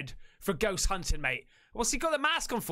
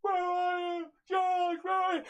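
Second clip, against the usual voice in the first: Blair Witch yelling; 7 semitones higher than usual. Retold or imitated. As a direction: yell for Josh lost in the dark woods. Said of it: "goes to the other camera".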